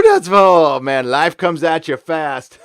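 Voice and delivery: slow, loud words through real laughter; can't stop laughing at the joke. Real, not acted. Streamer cracking up at Justin closing the borders, laughing. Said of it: "Sorry, I shouldn't laugh about that".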